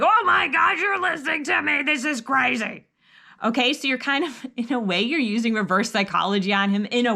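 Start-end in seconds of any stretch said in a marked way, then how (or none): 0.0-2.9 riled up praise. Shown as a demonstration. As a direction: gush with over-the-top delight at the child. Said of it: "then get riled up".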